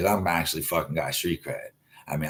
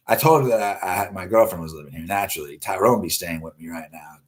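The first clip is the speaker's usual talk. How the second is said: ordinary talk, nothing marked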